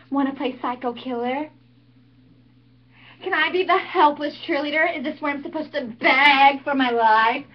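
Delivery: mocking, sarcastic cheerleader taunting a killer; Buffy monologue. Snooty cheerleader mocking the masked killer, sarcastic.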